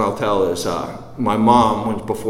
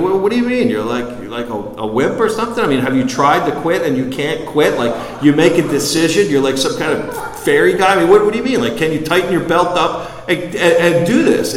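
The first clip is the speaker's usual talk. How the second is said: mocking; 5 semitones higher, 3 dB louder than usual. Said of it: "And I mean".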